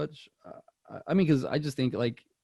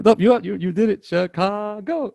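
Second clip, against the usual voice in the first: high, loud hammed-up movie voice; loud Ace Ventura impression; 9 semitones higher, 6 dB louder than usual. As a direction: belt it out like Ace. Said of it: "Dude, you know".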